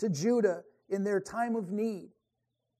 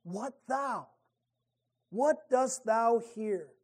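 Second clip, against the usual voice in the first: gentle rebuke; slower than usual. Pretend. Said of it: "than the question".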